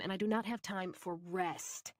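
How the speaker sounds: rest stressed, slow and deliberate. A narrator's reading. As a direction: lean on the word rest without mocking. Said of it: "put as much emphasis as I could on the word rest".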